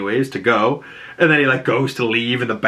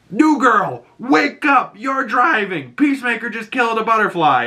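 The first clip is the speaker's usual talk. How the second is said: frantic wake-up call; 10 semitones higher than usual. Retold or imitated. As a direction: rouse her like an alarm. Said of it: "and she's like".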